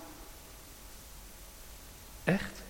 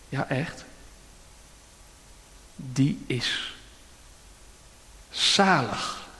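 earnest appeal; 2 semitones lower, slower than usual. Real, not acted. Closing appeal.

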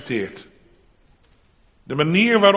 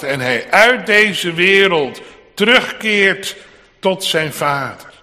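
loud, raised pulpit proclamation; triumphant preaching; 6 semitones higher, 6 dB louder than usual. Acted. Preacher proclaims to congregation Christ's return to his Father, triumphant. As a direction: proclaim it in long, ringing waves. Preacher at full force on homecoming.

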